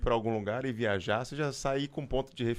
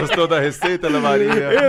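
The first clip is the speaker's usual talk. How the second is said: calling out; 4 semitones higher, 12 dB louder than usual. Real, not acted. Loudly addressing the dog.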